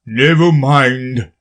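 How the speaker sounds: slow relieved king. A narrator's reading. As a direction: sigh it out with relief. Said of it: "with an air of great relief".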